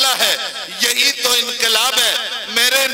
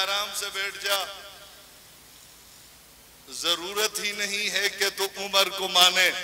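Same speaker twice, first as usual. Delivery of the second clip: much softer, calming the heckler; calm quiet rebuke; 4 semitones lower, 10 dB quieter than usual. Acted. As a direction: settle him down softly.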